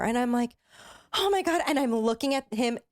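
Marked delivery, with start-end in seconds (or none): 1.1-1.6 horrified. Retold or imitated. Retelling the moment of panic.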